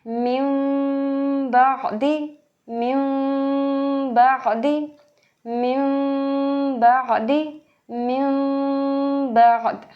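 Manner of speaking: slow recitation, मिम बअदी with a gliding मिम; recitation drill. Shown as a demonstration. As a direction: recite for students to repeat. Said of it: "Again मैं इसको पढ़ती हूँ".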